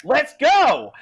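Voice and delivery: loud, high yell in character; shouted rallying cry. Acted. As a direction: holler it out, drawn out. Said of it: "Jed is like".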